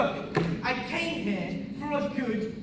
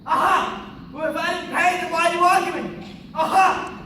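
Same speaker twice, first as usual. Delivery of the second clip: triumphant gotcha; 5 dB louder than usual. Acted. Gotcha moment.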